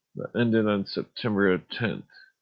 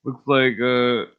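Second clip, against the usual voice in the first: louder mock impression of the truck guy; imitating the YouTuber; 5 dB louder, slower than usual. Imitating the truck astrology guy. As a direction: try to copy his truck-reading delivery. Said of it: "He's like".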